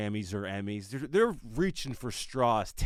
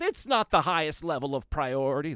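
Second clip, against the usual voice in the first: a light Obama voice, louder; lightly voiced Obama quote; a hint of Obama's measured delivery; Obama impression; 7 semitones higher, 7 dB louder than usual. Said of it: "That's my Obama impression".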